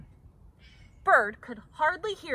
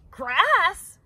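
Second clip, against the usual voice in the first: loud high "Grass?"; disgusted disbelief; 4 semitones higher, 8 dB louder than usual. A narrator's reading. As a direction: recoil at the offer.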